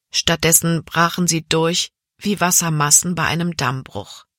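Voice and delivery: ordinary delivery, nothing marked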